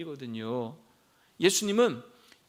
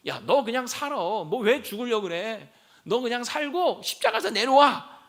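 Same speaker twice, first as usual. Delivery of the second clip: mock heckling, ending on a raised command; tossed-out taunt; 3 semitones higher, 3 dB louder than usual. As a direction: imitate passers-by goading, building louder. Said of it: "한마디씩 툭툭 던지는 소리". (툭툭 던지듯 조롱하는 흉내)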